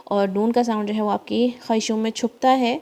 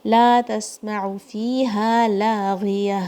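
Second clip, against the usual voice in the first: slow tajweed recitation, lengthened vowels; much slower than usual. Shown as a demonstration. Teacher reciting the verse slowly for students. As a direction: chant it slowly. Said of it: "کھڑی زبر".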